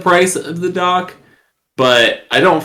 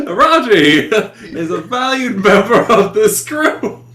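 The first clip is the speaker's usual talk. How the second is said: laughing; 3 semitones higher than usual. Real, not acted. Player laughing mid in-character line.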